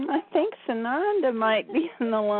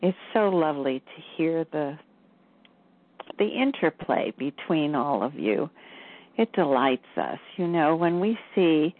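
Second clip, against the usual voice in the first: delighted channeled guide, a bit lower; lightly voiced spiritual guide; 4 semitones lower than usual. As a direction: speak as a pleased, kindly elder brother. Channels Sananda after stepping aside.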